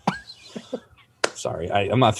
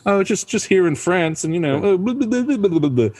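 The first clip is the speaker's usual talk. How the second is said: high mock French gibberish; fake French; 9 semitones higher than usual. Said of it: "that's what French sounds like to me".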